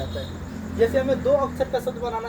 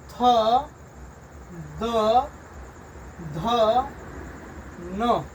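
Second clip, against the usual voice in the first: letter drill; much slower than usual. Shown as a demonstration. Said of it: "तो".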